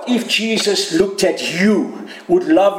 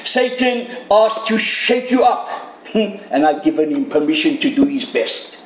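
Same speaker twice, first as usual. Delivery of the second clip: earnest Jesus; 4 semitones higher than usual. Acted. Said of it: "Jesus says".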